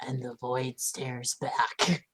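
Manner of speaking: low, very slow, softened murmur; hushed incantation. Acted. Player reading the password to open the door, hushed incantation. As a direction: intone it slowly and softly, still voiced. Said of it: "and I whisper".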